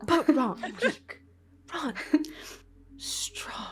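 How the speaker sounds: sulky brute voice. Acted. Sulking Ront, brokenly.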